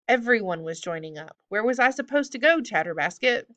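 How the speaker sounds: protesting, rising on the question; defensive goblin. Acted. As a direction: justify yourself to your accusers. Goblin defends himself to captors.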